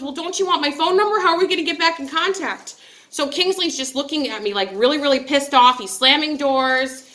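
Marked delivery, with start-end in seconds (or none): 0.0-2.8 high, hopeful plea; raised mock-pleading voice; pleading suitor. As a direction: sound like a lovestruck man begging to keep in touch. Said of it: "He goes".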